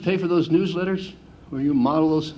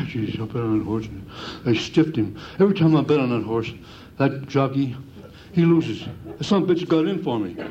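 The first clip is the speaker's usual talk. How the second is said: low, muttered gripe of a sore loser; a hint of a bitter racetrack loser; grumbling bettor; 3 semitones lower than usual. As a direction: mutter it like a bettor cursing his luck. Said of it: "take your little tape recorder".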